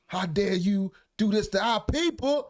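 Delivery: high, slow mock indignant voice; mocking Corey. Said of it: "Corey be on here talking shit about him".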